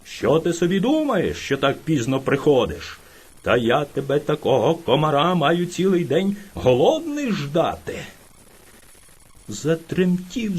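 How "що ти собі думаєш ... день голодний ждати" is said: scolding bear. Acted. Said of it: "кричав на нього ведмідь".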